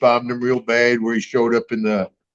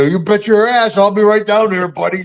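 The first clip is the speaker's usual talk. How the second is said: higher, cocky challenge, lightly played; mock tough reply; 7 semitones higher than usual. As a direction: throw the dare back like a tough guy. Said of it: "I go".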